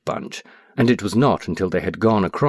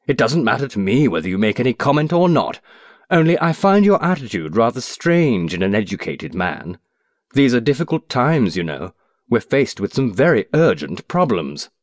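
raised, heated protest at the stranger; explosive; 4 semitones higher than usual. Acted. Businessman on a train snapping at a stranger, heated. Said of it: "he began explosively".

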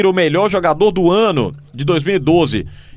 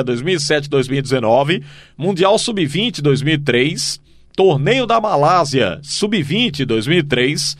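all in one breath. Real, not acted. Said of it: "eu tô quase aqui sem respirar".

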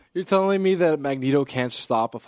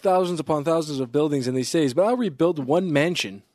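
higher, louder hammy villain; mock villain voice; 6 semitones higher, 5 dB louder than usual. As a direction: gloat like a silly villain.

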